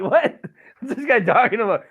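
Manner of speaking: loud, high-pitched startled grandma; mock disbelief. Grandma hearing she'll kill her husband, incredulous. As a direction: laugh through an incredulous outburst.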